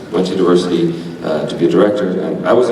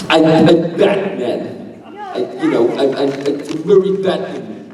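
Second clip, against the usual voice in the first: Batman voice; 7 semitones higher than usual. Pretend. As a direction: growl it like the caped crusader. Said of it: "In a Batman voice. Do it".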